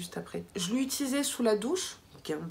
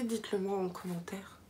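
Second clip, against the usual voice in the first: whispered aside; 6 dB quieter than usual. Real, not acted. Aside asking viewers to comment.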